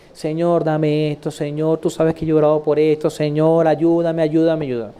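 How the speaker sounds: low, droning mock prayer; pleading prayer. Believer asks God for help, pleading. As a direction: imitate someone begging on and on in one low tone.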